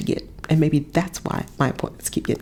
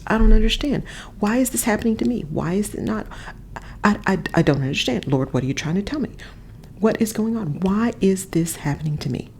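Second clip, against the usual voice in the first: a touch higher, confused pleading; bewildered why-me; 3 semitones higher than usual. Retold or imitated. To herself in a hard week, mild helpless pleading. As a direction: mildly act out the panicked why-is-this-happening mind. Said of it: "get in that mode that says".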